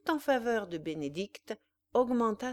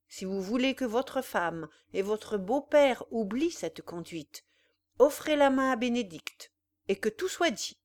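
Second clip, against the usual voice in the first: 1 stern rebuke; 2 semitones higher, 4 dB louder than usual. Acted. Old father rebukes son-in-law sternly.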